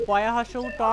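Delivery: "পয়া হ্রস্ব উ ট" letter by letter; name each letter and vowel sign in "পয়া হ্রস্ব উ ট"; spelling it out. Shown as a demonstration. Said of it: "বানান করে পড়ি না".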